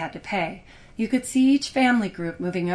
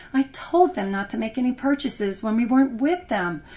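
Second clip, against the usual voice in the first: crying out; 4 semitones higher, 4 dB louder than usual. Acted. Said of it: "Millicent cried".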